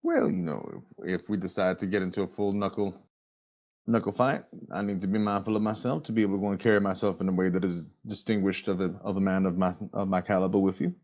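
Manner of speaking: low, formal and courteous; a polite gentleman werewolf, lightly voiced; gentlemanly werewolf voice.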